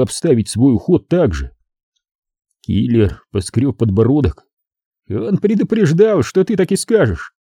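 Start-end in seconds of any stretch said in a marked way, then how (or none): 5.1-7.3 gangster muttering. A narrator's reading. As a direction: murmur it half to himself. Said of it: "пробормотал он". (бормочет себе под нос)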